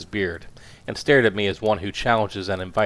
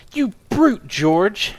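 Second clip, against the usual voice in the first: high piercing scream, much louder; screaming at husband; 11 semitones higher, 5 dB louder, much slower than usual. Acted. Furious wife screams at her husband. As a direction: shriek it at the brutish husband. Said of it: "she screamed".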